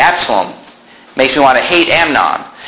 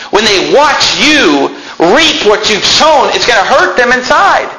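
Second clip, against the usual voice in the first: raised pitch, emphatic sermon delivery; impassioned preaching; 9 semitones higher than usual. Acted. Preacher warning that sin hurts families, impassioned. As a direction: press the warning on the congregation.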